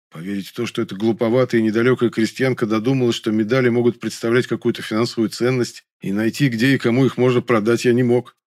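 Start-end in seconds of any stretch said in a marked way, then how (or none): none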